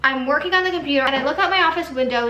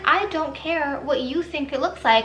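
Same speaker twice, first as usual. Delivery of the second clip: retold curt dismissal, less polite than the original; exaggerated rudeness. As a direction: play up a blunt, annoyed comeback. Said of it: "I didn't say it like that. I was a lot nicer".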